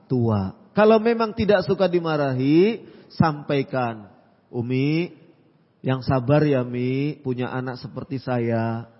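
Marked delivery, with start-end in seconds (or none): 4.5-8.9 lightly voiced child's soft, lower-pitched plea; pleasant, gentle plea. Child asking Umi for patience, mildly gentle. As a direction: speak gently, lower and a little softer. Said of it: "Enak bahasanya".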